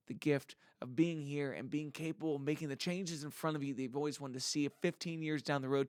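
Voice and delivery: a light sermon-style build, rising in the middle; internet preacher. Acted. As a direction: preach positivity like a mild online preacher. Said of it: "let me try to give you my best internet preacher".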